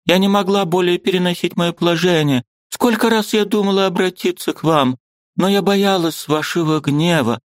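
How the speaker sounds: высокий умоляющий женский голос; кайся и моли о прощении; кающаяся жена. A narrator's reading. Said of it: "прибавила она". (высоким голосом, каясь перед мужем)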